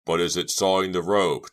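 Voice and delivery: demanding. A narrator's reading. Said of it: "Chuck demanded".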